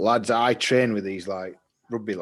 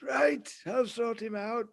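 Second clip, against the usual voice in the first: slow mock teacher; 12 semitones higher, slower than usual. Teacher promising, slow high.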